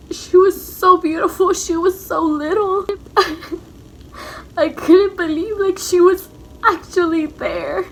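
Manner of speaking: choked-up, close to crying; tearful. Real, not acted. Mother telling her daughter about first seeing her, tearful. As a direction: hold back tears as you say it.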